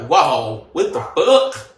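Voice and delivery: a stunned, rising what the fuck; reacting to being told it was karma; shocked. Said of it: "I was like".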